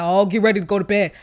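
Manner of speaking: loud, quick mimicked order; retold bedtime order. Mimicking mother ordering child to bed, retold order. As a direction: imitate being packed off to bed. Quotes being sent to bed.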